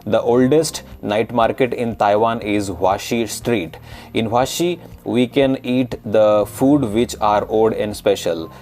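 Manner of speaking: reading an essay in a typical Indian accent, retroflex t and d. Shown as a demonstration. Teacher reads night market essay to Taiwanese learners, in Indian accent. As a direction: demo Indian English read for learners to decode. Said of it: "now I'm gonna read it in typical Indian accent".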